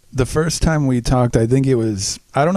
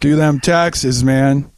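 put-on old-timey gangster voice; 3 semitones higher, slower than usual. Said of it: "old timey gangster voice".

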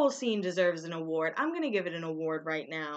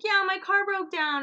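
imitating Kristen; 11 semitones higher, 3 dB louder than usual. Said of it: "And she's like".

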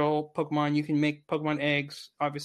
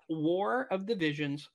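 slow careful; 4 dB quieter than usual. Shown as a demonstration. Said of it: "Can you say the name again?".

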